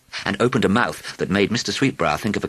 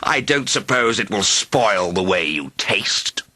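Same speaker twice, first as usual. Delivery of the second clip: a lightly voiced greedy dragon, amused; 3 semitones higher, slower than usual. A narrator's reading. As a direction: savour the word like a hungry dragon.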